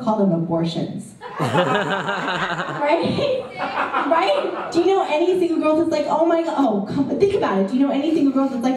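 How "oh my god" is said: mock gasp. Mock single girl.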